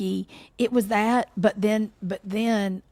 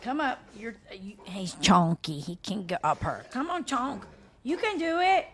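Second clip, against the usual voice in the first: coaxing dog; 3 semitones higher than usual. Real, not acted. Coaxing dog onto table.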